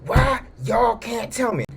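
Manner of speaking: high, slow mock shout; irate shout. Angry boss shouting at the couple, high slow yell. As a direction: yell it out, furious. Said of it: "he's getting mad".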